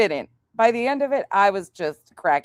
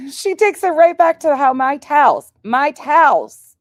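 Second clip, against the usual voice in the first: laughing while telling; 9 semitones higher, 8 dB louder than usual. Real, not acted. Laughing at daughter's towel grudge.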